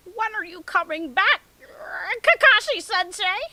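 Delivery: high, loud lovesick whine; pining girly voice. Acted. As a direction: sigh out for your sensei. Hinata longing.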